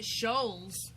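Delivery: Shoals drawn out slowly; struggling pronunciation. Real, not acted. Co-host attempts the show's tricky word, Shoals drawn out slowly. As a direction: take your time over the word Shoals. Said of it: "still trying to pronounce the word Shoals".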